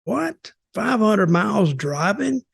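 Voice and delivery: lightly voiced baffled outsider; incredulous disbelief. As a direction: play the stunned listener, mildly. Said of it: "they'd look at you like".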